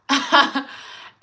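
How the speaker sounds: high, loud burst of laughter; amused laugh. Real, not acted. Host amused by a viewer's commercial joke, laughing.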